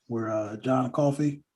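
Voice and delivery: slow, drawn-out put-on accent on John Coffey. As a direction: slip into a vague movie-character accent for the name John Coffey. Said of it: "I don't know why I said it with an accent".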